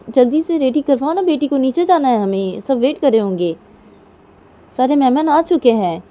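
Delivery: high, loud, pressing complaint; impatient hurrying. Acted. Nisha rushing Manisha as guests wait, impatient. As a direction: hurry her along crossly.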